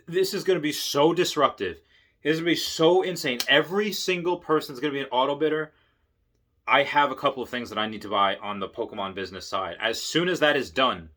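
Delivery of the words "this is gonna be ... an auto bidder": excited. Real, not acted. Hyped about Tesla's future.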